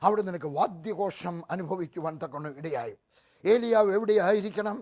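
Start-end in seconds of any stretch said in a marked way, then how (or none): 3.4-4.8 loud rhetorical cry. Acted. Preacher's rhetorical question.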